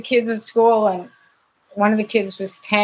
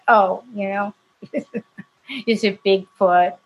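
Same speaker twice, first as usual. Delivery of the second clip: mocking laugh; much slower than usual. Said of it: "they said".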